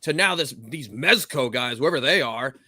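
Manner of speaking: exec in crisis. Acted. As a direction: play a worried executive rallying the room. Acted panicked boss at Playmates meeting.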